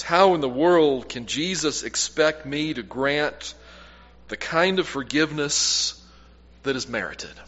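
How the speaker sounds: slowed, questioning; a hint of a puzzled congregant; slow doubting question. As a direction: voice their doubt slowly, trailing off. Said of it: "A question I get asked often".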